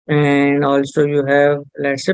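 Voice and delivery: usual speaking voice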